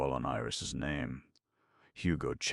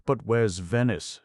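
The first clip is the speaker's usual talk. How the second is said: high, loud scream; panicked loud scream; 8 semitones higher, 9 dB louder than usual. Acted. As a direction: cry it out in panic. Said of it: "screamed Shirley".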